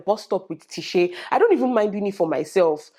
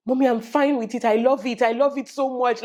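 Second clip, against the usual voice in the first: 1 imitating happy daughter; 5 semitones higher than usual. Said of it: "she said".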